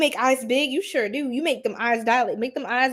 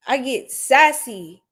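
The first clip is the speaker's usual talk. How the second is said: sassy; 5 dB louder, slower than usual. Shown as a demonstration.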